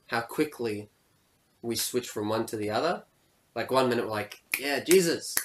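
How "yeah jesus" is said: higher, lightly excited worshipper; mock crowd cheer. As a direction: play an easily won-over fan.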